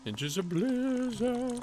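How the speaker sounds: high dramatic announcer voice. Shown as a demonstration. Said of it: "repeated in a voice".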